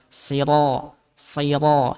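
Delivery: "Siro" with a heavy, full r sound; thick ro. Shown as a demonstration. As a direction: draw out "siro" with a thick, rounded ro. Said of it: "Karena huruf ro-nya tebal". ("siro" dengan huruf ro tebal)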